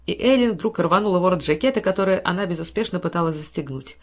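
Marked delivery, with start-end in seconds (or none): none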